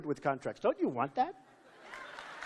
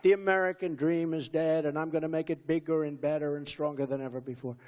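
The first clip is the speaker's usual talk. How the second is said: quoting his speech line; 3 semitones lower than usual. Retold or imitated. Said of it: "And I say it a lot".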